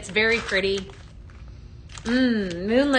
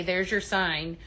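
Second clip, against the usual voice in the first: normal talking voice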